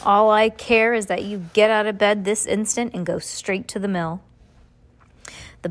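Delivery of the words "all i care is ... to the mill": muffled foreman voice. Acted. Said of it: "in his muffled voice".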